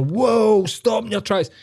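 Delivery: hammed-up street fundraiser blocking the way; mock charity mugger. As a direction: jump in front of them, mock-cheery. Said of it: "like, pure".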